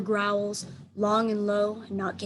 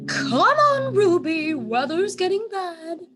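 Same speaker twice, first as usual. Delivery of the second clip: high, loud, urgent aunt; elephant aunt voice; 9 semitones higher, 6 dB louder, slower than usual. A narrator's reading. Elephant aunt calling Ruby home, high and urgent. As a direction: hurry the little one along.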